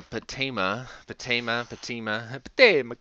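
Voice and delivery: patema tried several ways, stress shifting; trying out patema. Shown as a demonstration. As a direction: sound out patema over and over. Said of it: "So, uh".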